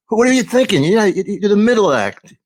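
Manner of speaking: high-pitched mock outrage; indignant scolding. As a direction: scold the opener in comic disbelief. Comic scolding of the opener.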